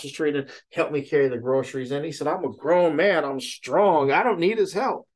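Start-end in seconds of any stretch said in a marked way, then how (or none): 2.3-5.1 higher, retold proud objection; mock indignant protest. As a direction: protest like a proud man refusing help. Retelling neighbor's proud protest of help.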